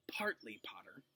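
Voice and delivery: soft unvoiced whisper. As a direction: lean in and whisper the secret. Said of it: "lowering his voice to whisper".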